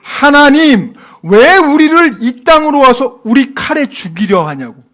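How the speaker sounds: loud, high-pitched protest; acted outraged outcry; blaming God. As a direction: cry out an accusing complaint. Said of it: "하나님 원망합니까?".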